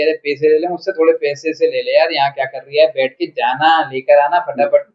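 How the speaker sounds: light Bhopali accent, casual and bossy; a touch of Bhopali street talk sending someone off. Shown as a demonstration. Actor demonstrates Bhopali accent for the interviewer, lightly done. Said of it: "accent एक बार बोल के दिखाइए".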